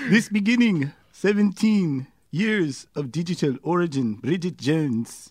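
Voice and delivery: halting, unconvincing Canadian accent; attempted Canadian accent. Shown as a demonstration. Guest reading the article for sceptical hosts, badly faked Canadian accent. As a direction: stumble through a reading in fake Canadian. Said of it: "in your Canadian accent".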